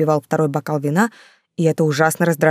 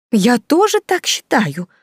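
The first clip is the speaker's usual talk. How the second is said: eager, slow, higher fawning yes; fawning agreement; 7 semitones higher, 3 dB louder, slower than usual. A narrator's reading. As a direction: flatter her, agree too readily. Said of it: "подобострастно заявила Ханна". (подобострастно, выше и медленно)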